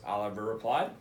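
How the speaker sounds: put-on lively read-aloud voice for young listeners; reading to children. Principal reading a picture book to students, lively storytelling voice.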